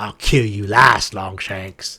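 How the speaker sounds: low, monstrous goblin creature voice. A game narrator voicing the goblin's reply to the players, in goblin voice. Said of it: "so the Goblin says".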